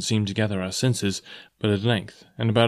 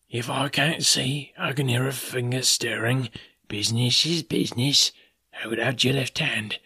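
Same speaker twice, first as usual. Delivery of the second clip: blind beggar. A narrator's reading.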